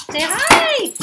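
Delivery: loud, very high coaxing call; excited pet talk. Real, not acted. Owner prompts dogs to greet viewers, excited pet talk.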